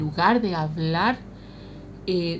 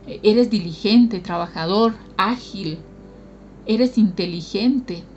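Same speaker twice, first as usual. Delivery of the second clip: encouraging blessing; slower than usual. Retold or imitated. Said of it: "dijéramos".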